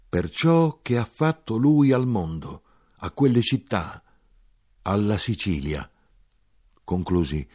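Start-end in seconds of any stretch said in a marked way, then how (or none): 0.1-5.9 calm. A narrator's reading. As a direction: come down from the shouting into calm. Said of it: "Continuai con calma".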